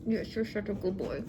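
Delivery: soft whispered praise for the dog. Real, not acted. Whispering praise to her dog while filming, softly.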